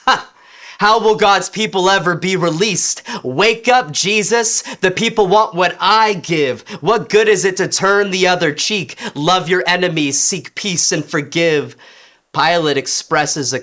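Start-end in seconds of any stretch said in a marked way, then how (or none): 0.1-0.3 sharp high mocking "Ha!"; scornful laugh. 0.8-11.8 mocking. Mocking Jesus' teaching.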